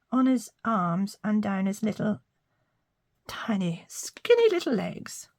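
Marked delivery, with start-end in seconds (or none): 3.3-5.3 cutesy. Pretend. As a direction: coo it like baby talk. Cooing over the bunny's legs.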